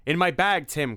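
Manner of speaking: high loud cry; urgent shout; cried out. Acted. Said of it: "cried Simon".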